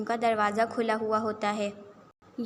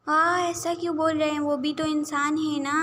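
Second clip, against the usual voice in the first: higher, louder objection; protesting; 5 semitones higher, 5 dB louder than usual. Acted. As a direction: plead against the unfair words. Girl protests her brother's harsh words. (احتجاج کرتے ہوئے)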